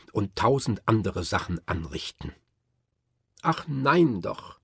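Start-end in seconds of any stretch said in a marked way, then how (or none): 3.4-4.6 put-on slow, raised child voice; drawn-out boyish objection; child protesting. Fritz protests.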